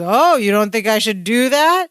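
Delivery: mock-condescending question, drawn-up at the end; lightly hammed-up condescension. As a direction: imitate someone talking down to a doubter. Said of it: "real condescending way".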